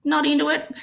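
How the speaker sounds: hammed-up rude prospect waving her off; dismissive prospect. Coach imitating a prospect who dislikes her accent, mock dismissive. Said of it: "they're gonna go".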